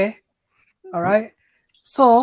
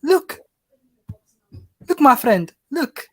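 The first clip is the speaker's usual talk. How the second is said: put-on insistent Somali uncle accent; slower than usual. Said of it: "it's meant to be Somali".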